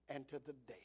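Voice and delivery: preacher reading Naomi's blessing to the congregation, whispered. Real, not acted. Hushed whisper. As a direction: drop to a hush on the last words.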